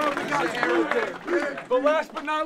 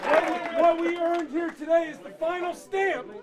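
fired-up speech; 3 semitones higher than usual. Real, not acted. Coach's locker room victory speech.

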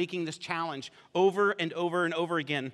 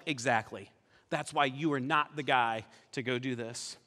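dry dismissal; 6 semitones lower, 4 dB quieter than usual. Acted. Saul dryly dismisses the shepherd boy.

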